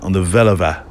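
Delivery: "Veluwe" said carefully, falling at the end; practising "Veluwe" as a lesson phrase; language-lesson repetition. Shown as a demonstration. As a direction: try out "Veluwe" like a language drill. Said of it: "I sound like those lessons".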